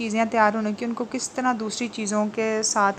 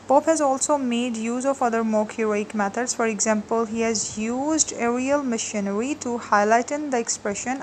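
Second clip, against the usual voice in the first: slow, deliberate note reading for students; slow dictation; much slower than usual. Acted. Teacher dictating notes to her class, slow and clear. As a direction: dictate each phrase so they can write it.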